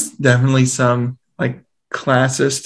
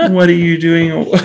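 mock exasperated dad; 3 semitones higher, 4 dB louder than usual. Dad reacting to son.

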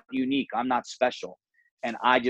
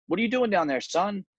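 doctor; 8 semitones higher than usual. Retold or imitated. Doctor voiced in parable.

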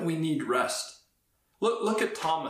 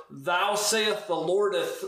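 slow, mock-pious old English; mock King James cliche; slower than usual. Preacher mocking a cute cliche, slow mock-pious. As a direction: ham up a churchy cliche. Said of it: "some cute cliche".

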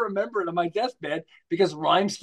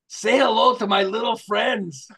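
Al Pacino line; 4 semitones higher, 3 dB louder, slower than usual. Retold or imitated. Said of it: "You know, the movie, uh, Scarface".

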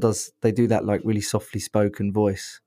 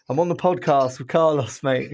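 laughing shout; 5 semitones higher than usual. Real, not acted. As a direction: laugh while telling a friend on the phone. Calling out to a friend on phone.

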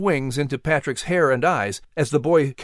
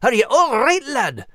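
high, loud concerned call; barked; 10 semitones higher, 3 dB louder than usual. A narrator's reading. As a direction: bark it out to a fallen friend. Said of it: "Max barked".

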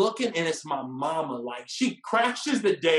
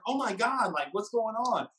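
lightly imitated startled date, higher; imagined girlfriend's voice; 3 semitones higher than usual. Date startled by honking car, lightly mimicked alarm. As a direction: mimic her mild alarm, half-joking. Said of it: "She didn't necessarily sound like that, but it was kinda how she sounded in my head".

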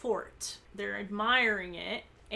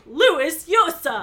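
loud slow shouted name; cried out; 6 semitones higher, 11 dB louder, slower than usual. Acted. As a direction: cry the name out. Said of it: "Nancy and Carla cried out".

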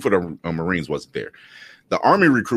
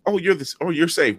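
mock patronizing; 8 semitones higher than usual. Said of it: "there's that conversation".

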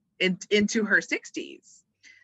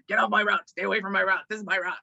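territorial crawfish. Retold or imitated. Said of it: "one was like".

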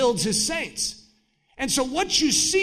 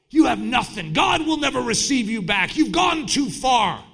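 accusing voice; 3 semitones higher, 4 dB louder than usual. Retold or imitated. Accuser's voice of condemnation.

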